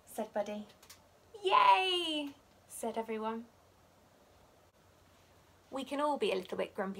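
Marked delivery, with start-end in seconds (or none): 1.4-2.3 much higher, loud happy cheer; cheering yay. A narrator's reading. Friends delighted to play chase, happy cheer. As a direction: cheer it out together.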